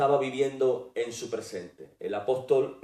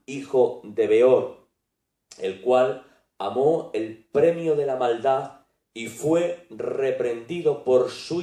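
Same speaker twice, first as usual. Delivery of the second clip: slow, forceful Bible reading; scripture reading; 4 dB louder, slower than usual. Acted. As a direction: proclaim the verse phrase by phrase, with firm stresses. Reads scripture aloud. (lectura bíblica enfática y pausada)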